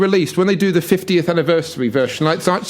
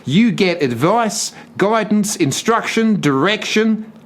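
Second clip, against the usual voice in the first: put-on Aussie accent; 5 semitones higher than usual. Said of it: "I'm an Aussie".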